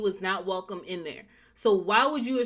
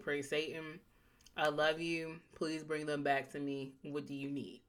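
meek pleading; 5 semitones lower, 10 dB quieter than usual. Retold or imitated. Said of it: "I'd be like".

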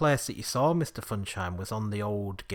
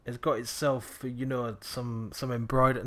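put-on Cockney accent; 6 dB louder than usual. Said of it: "I'm just going Cockney now".

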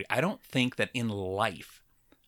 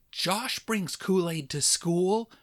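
high, slow, sing-song tattle; tattling kid; 8 semitones higher, much slower than usual. Retold or imitated. Classmate telling the teacher, sing-song tattling. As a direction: play the classmate telling on him. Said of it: "some kid pipes up".

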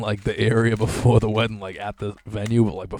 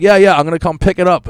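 mock prank caller; 8 semitones higher, 10 dB louder than usual. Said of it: "He'd be like".

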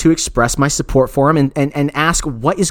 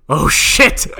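unvoiced, laughing panic; whispered oh shit. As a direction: whisper it in shock. Caught off guard on phone.

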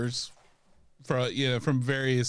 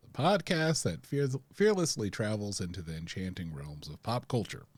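a touch of grand announcer; podcast intro; 4 semitones lower than usual. Acted. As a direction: announce it with theatrical flair.

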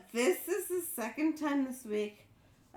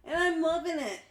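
fighting back laughter while reading; strained, laughing read. Real, not acted. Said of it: "You sound like you're passing a kidney stone".

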